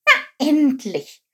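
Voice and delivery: high, drawn-out exclamation; relieved cry. A narrator's reading. Chilp cheers that the king relented, high slow cry. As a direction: let it out slowly, high-voiced, at long last. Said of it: "rief Chilp".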